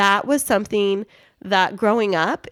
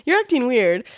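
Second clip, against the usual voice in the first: quoting him; 5 semitones higher than usual. Retold or imitated. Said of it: "that's what you said".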